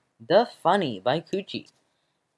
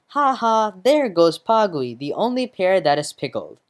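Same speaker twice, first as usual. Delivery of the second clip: mocking laugh; 4 semitones higher, 4 dB louder than usual. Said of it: "the orange says".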